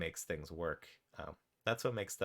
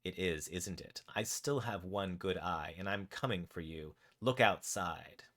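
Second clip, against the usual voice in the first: mildly sinister villain, slow and deliberate; Shelby. Acted. Villain on the phone threatening the escaped raccoon, lightly sinister. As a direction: draw the threat out slowly, last words most of all. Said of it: "sinister voice".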